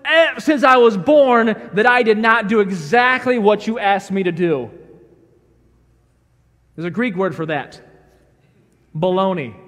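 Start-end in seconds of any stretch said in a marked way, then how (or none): 0.0-4.7 raised, louder protest to dad; indignant elder son. Acted. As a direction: insist you never once slipped up. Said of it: "He said".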